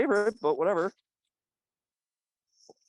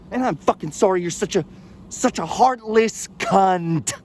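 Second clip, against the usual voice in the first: venomous insult. Acted. Insult building to a slow finish.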